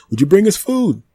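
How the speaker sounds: a living tree explaining itself to the human, high and smug; talking tree. Acted. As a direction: play the tree, smug and amused. Tree character argues.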